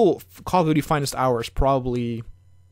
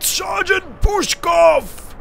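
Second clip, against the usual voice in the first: shouting a name; 4 dB louder, much slower than usual. Pretend. Calling out to sergeant in game.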